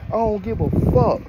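high-pitched furious snap; snapping. Retold or imitated. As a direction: lash out at her, pitch way up. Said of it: "Boy, I snapped on this hoe".

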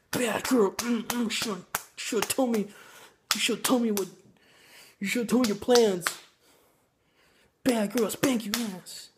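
campy dom voice. Retold or imitated. Reviewer mocking the hero's spanking scene, campy scolding. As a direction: camp it up like a cheesy lover. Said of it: "done in a really campy way".

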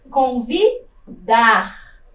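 Convidar split, pause, then long DAR; stress on final syllable. Shown as a demonstration. Teacher shows the last syllable, Convidar with a held, stressed DAR. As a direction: draw out the DAR of Convidar after a gap. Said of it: "também na última sílaba".

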